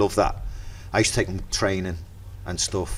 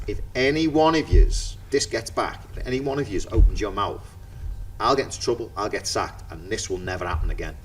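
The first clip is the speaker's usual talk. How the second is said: mock stern warning; 2 semitones higher, 3 dB quieter than usual. Warning players to keep quiet.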